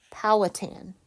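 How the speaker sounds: "Powhatan" as joined-up POW-uh-tan; model pronunciation. Shown as a demonstration. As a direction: put the syllables together in "Powhatan", POW first and firm. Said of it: "let me give you the pronunciation".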